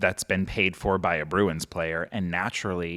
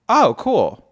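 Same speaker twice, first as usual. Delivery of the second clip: flat deadpan; 12 semitones higher, 9 dB louder than usual. Retold or imitated.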